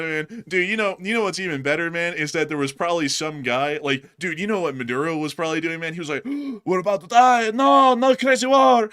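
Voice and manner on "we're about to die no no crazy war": high, loud hammed-up panic, slowing at the end; a mock dictator wailing in fear. Maduro panicking about war, hammed-up high loud panic.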